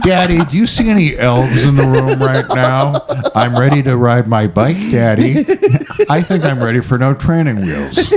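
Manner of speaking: mock little boy in a man's voice; lightly acted kid with an adult voice; deep-voiced child. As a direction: address Daddy with childish earnestness. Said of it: "hairless baby dick with that voice".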